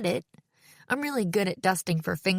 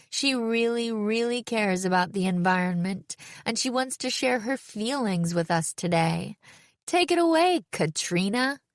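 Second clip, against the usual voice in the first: lifted, hyped-up handover to the performer; emcee introduction; 4 semitones higher than usual. A narrator's reading. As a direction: play up the newcomer for the crowd. Host hypes reluctant newcomer to crowd.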